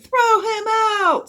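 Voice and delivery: high, loud, drawn-out jeer; slow, hostile crowd yell; heckler shouting. A narrator's reading. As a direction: demand it at full voice. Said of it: "said another".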